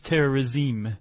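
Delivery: "terrorisme" in a haughty French accent, slowed down; condescending French. Shown as a demonstration. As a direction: say "terrorisme" the French way, with a superior air. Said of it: "You have to say it like you're condescending".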